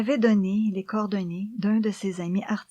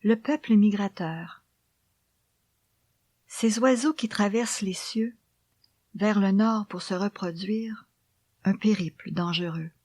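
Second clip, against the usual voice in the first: poem recitation. Acted. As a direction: read the poem gently, almost whispered.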